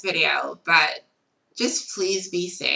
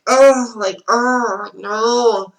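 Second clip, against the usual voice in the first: mock panic; 4 semitones higher, 9 dB louder, much slower than usual. Panicking after going offline.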